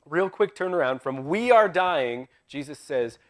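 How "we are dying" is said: drawn-out panic. Retold or imitated. Quoting apostles' panic.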